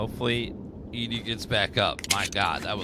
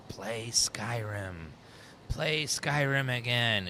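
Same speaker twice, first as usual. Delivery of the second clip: imitating Todd Howard; 4 dB quieter, much slower than usual. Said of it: "Todd's pull of".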